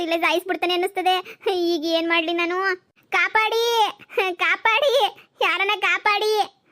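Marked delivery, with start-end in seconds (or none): 3.1-6.6 high, desperate cries for help, slowing at the end; calling for help. Acted. Kidnapped woman alone in a dark house cries out for help. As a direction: shout out for rescue into the empty dark.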